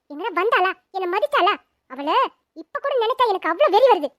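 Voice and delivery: furious yelling. Acted. Wife refusing to take the runaway couple in, furious yelling. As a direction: rage on like someone possessed. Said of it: "எதுக்கு இப்ப வெறி பிடிச்ச மாதிரி இப்படி கத்துற".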